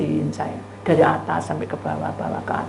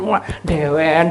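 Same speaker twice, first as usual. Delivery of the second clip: usual speaking voice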